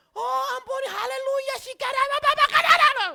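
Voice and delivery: high, loud shrieked speaking in tongues; panicked tongues. Retold or imitated. Pastor reenacting praying in tongues on the ride, high and loud. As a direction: babble in tongues in sheer panic. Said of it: "pokoknya gue bahasa roh".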